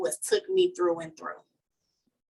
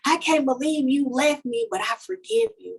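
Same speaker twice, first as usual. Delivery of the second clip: aching, pushing through to forgive; hurt then forgiving; 6 semitones higher than usual. Retold or imitated. Woman addressing her child's father, high hurt forgiving. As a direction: voice climbing high on each forgive. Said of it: "write down everything he did that hurted me".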